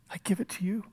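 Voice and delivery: soft unvoiced whisper of trust; a whispered prayer of surrender. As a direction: breathe it out, letting go. Jesus' surrender, voiced softly.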